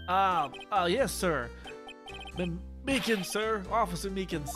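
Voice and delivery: lightly voiced country cop, stammering; nervous yes-sir drawl; good ol' boy. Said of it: "redneck voice".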